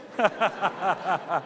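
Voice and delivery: steady rhythmic chuckle. Real, not acted. Preacher ending his anecdote on "cinco", amused chuckle. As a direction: laugh at your own punchline.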